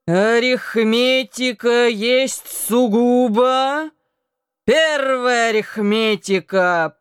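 put-on slow, sing-song drunk voice; drunken recitation. A narrator's reading. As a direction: chant the drilled words like a drunk. Drunk Anton recites lessons.

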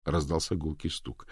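ordinary delivery

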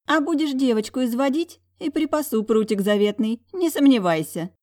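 put-on old aunt scolding. A narrator's reading. Old aunt teasing her nephew with mock threats. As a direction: fuss at him like a stern old aunt.

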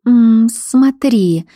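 uneasy, drawn-out 'look'. A narrator's reading. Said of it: "уже не так спокойно сказала девушка".

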